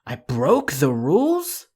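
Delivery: astonished and loud at once; incredulous exclaimed question; shocked question. Shown as a demonstration. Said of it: "question mark and an exclamation mark".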